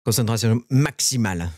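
focused and slow. Real, not acted. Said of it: "Je vous parle plus".

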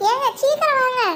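wife calls her husband to come quickly; urgent call. Acted. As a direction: hurry him from a distance. Calling husband to hurry.

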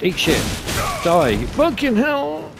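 loud, high furious outbursts; angry combat yells. Real, not acted. Player swearing at the boss mid-fight, angry yells. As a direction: spit it at the enemy.

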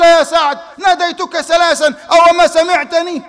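high, loud, slow call. Retold or imitated. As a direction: shout after him down the road. Prophet calling Saad back.

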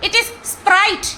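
very slow, every word stretched out; mock drawn-out answer. Teasing the uploader over Sprite, each word drawn out very slowly. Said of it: "what is Sprite?".

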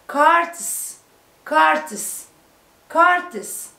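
"كارتس" ending in a voiceless ts; final s sound. Shown as a demonstration. Teacher drilling carts for pupils, "كارتس" ending in s. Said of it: "دي برضو سمعناها ايه؟".

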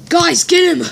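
loud command; shouting. Acted. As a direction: shout the order. Ordering an attack.

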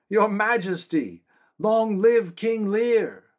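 loud, slow, high acclaim; joyful cry. A narrator's reading. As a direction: hail the new king with all your breath. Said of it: "cried out together".

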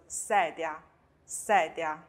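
sedia starting with hissed se; voiceless s. Shown as a demonstration. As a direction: model sedia slowly with an unvoiced s. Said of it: "斯拼上i发se".

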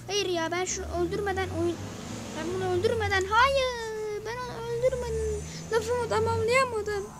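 high, loud, strained cry of frustration; frustrated wail. Real, not acted. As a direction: wail it out, voice cracking. Frustrated cry after dying in game. (hayal kırıklığıyla bağırarak ağlamak)

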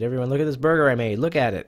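loud, fast show-off announcement; excited call-out. Pretend. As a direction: call out to the whole room, proud of the burger. Showing off burger to customers.

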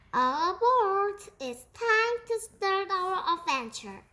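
high, loud call to board; excited rallying call. A narrator's reading. The animals setting off to sea, excited rallying call. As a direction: sing out an eager call to set off.

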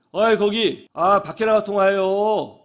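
slow, drawn-out mock complaint; retold annoyed call-out. Man to woman phoning on the train, annoyed call-out. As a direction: call out like an irritated passenger.

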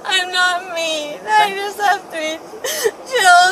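crying. Real, not acted. Crying, slow pleading.

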